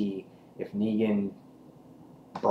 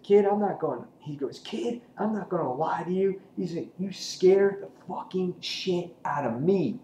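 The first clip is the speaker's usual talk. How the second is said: lightly voiced Negan, pitched higher; level with the kid in a raised put-on voice; 7 semitones higher than usual. Negan talking to Carl.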